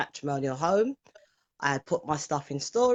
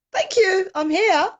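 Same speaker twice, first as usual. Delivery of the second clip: much higher and louder, voice cracking up with feeling; overwhelmed emotion; 8 dB louder than usual. Real, not acted. Guest thanking the host, overcome and high-pitched. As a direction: burst out high and loud, overcome.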